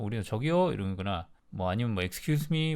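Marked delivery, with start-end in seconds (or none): 0.2-0.7 loud call across the room. Shown as a demonstration. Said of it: "우리나라처럼 소리를 내서". 2.0-2.8 loud call. Shown as a demonstration. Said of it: "이런 식으로 영어로".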